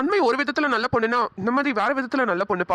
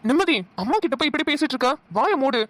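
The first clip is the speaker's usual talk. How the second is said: higher-pitched rebuke; indignant scolding; 4 semitones higher than usual. Acted. Man telling woman off for insulting mother, indignant scolding. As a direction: scold her in a raised pitch.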